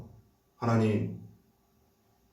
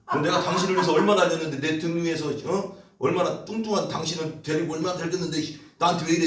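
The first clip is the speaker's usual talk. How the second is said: indignant horse complaint; 5 semitones higher than usual. Pretend. A horse scolding its fat rider, fast and indignant. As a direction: rattle off the grievances, outraged. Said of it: "이렇게 말한다면 얼마나 황당하겠어".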